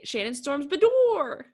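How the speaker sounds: catchphrase impression with a rising swoop on Bedore; imitated catchphrase. Telling how she'll say her own name, playful imitation. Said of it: "So, like, she'll say".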